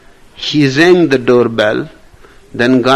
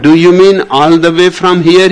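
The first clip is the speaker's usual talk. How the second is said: naive amazed recruit; 5 semitones higher, 6 dB louder, faster than usual. Acted. Country recruit asks, amazed.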